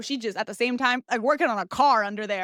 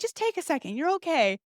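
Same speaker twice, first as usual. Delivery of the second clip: lightly imitated doctor, raised pitch; reassuring doctor; 5 semitones higher than usual. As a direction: mimic someone settling a nervous patient.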